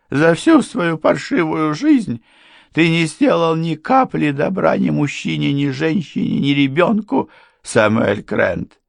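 high, forceful accusation, easing down on the name; high-pitched scornful tirade; denouncing housekeeper. A narrator's reading. Housekeeper denounces the worthless husband, high and forceful.

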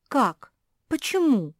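high, loud puzzled questions; can't believe it; bewildered. A narrator's reading. Josie bewildered that the king can't command them. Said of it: "впала в недоумение".

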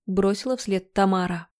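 ordinary delivery, nothing marked

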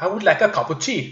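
a polite, proper British order for tea; British James Bond. Retold or imitated. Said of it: "Då hade James Bond sagt". (lätt brittisk James Bond-röst)

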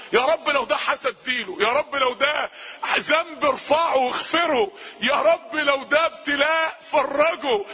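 drawn-out, imploring prayer; pleading supplication. Shown as a demonstration. Preacher showing listeners how to beg God, pleading. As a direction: draw out the plea slowly.

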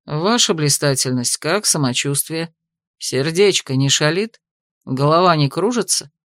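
measured menace under formal words; cold investigator. A narrator's reading. Royal investigator coldly addresses the mistress, low and sardonic. Hazarl's voice.

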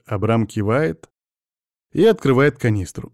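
ordinary delivery

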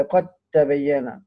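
slow "قد تبين", its د becoming a held ت; idgham of dal into ta. Shown as a demonstration. Teacher demonstrating the rule, "قد تبين" slowly with doubled t. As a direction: say "قد تبين" as qat-tabayyana, no d heard. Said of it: "وإدغام دال قد في حرف التاء".

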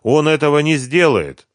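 unsure, wavering reply; hesitant. A narrator's reading. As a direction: say «не сделает» without conviction. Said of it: "нерешительно сказала она". (нерешительно, неуверенно)

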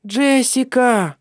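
put-on high, slow, loud child crying out a name; a small girl calling from the ship; child's call. A narrator's reading. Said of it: "с корабля раздался детский голос".

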